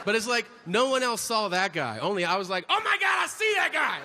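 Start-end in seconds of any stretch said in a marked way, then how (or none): 2.7-4.0 tinggi dan terengah, heboh; mock excited gasp. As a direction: berseru kaget dengan suara sangat tinggi. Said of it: "like that".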